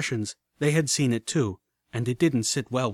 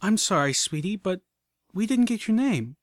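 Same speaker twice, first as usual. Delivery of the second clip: Velvet calling out; 8 semitones higher than usual. A narrator's reading. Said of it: "Velvet called out".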